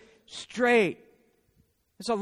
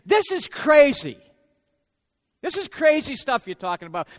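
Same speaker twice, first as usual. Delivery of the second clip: incredulous; 4 semitones higher, 6 dB louder than usual. Retold or imitated. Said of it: "nice way of saying".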